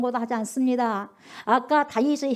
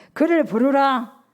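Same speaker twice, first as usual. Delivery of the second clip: commanding Jesus; 2 semitones higher, 6 dB louder, slower than usual. Acted. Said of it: "머물러 서서".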